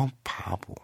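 very soft, low aside; acted hushed self-talk; inner voice. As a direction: murmur it privately to yourself. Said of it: "속으로 그러는 거야".

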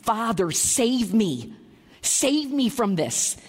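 slow, drawn-out plea; pleading. Acted. Jesus declaring to his Father, pleading. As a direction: beg earnestly, letting each phrase fall. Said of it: "Jesus is declaring and pleading".

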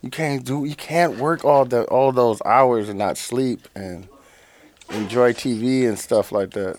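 soft, low, slow mock preaching; airy preachy impression. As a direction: imitate a friend preaching gently, in an airy voice. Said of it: "are you guys doing an impression of me".

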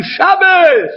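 a sudden wail of grief; crying out. Retold or imitated. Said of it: "and he's crying".

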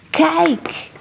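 high, startled "Kijk"; astonished cry. A narrator's reading. Monk astonished at the statue, crying out. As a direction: point and cry out in awe. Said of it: "riep hij wijzend".

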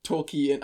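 Tolkien said crisply, every sound clear; enunciating. Shown as a demonstration. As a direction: spell out Tolkien carefully. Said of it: "I'm enunciating".

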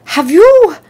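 kindly Australian doctor starting a question; grave old Australian doctor; Australian accent. Retold or imitated. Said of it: "and he says".

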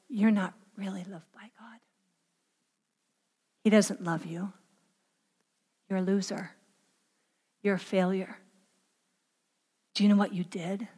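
low, hushed whisper with long pauses. Acted. The enemy whispering accusations to a believer, whispered. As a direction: whisper it very softly, like an insidious voice. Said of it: "He whispers".

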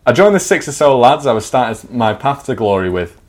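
measured storyteller voice; story narration. Acted. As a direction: read it like a comic memoir. Reads his story aloud.

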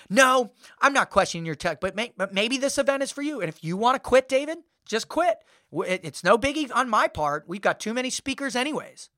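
dismissive. Retold or imitated. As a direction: brush him off in a mock high voice. Organizer dismissively invites him to quit.

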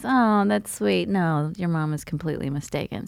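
gently pity, then correct. Retold or imitated. Doctor correcting a patient's mistaken mother, with pity. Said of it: "like, with pity and goes".

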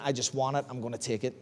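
dropped to a low murmur of temptation; hushed inner voice. Retold or imitated. Achan quietly tells himself he will take it, hushed murmur. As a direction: say it under your breath, greedy.

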